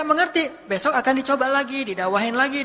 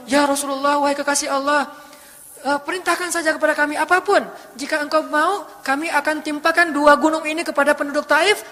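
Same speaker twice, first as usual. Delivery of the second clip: higher, keen angel urging the Prophet on; eager mountain angel; 4 semitones higher than usual. Acted. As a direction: mountain angel pressing the Prophet to give the order. Mountain angel eagerly offers help.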